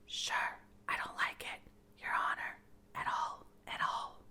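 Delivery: frightened servant whispering. Acted. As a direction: breathe the words, no voice at all. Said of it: "could only hear whispers".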